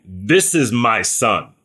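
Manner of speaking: lightly voiced God, slow and measured; voice from the cloud. God the Father speaking from the cloud, slow and lightly voiced. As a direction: draw the declaration out slowly. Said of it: "a voice came from the cloud saying".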